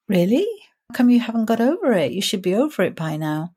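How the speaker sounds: mildly disbelieving, pitch lifted then dropping; mock incredulity. People questioning her lasting grief, retold with mild incredulity. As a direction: imitate someone puzzled and faintly reproachful.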